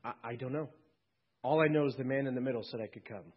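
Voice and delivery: a lightly voiced humble thief. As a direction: answer plainly, almost shy. Thief unsure at heaven's gate.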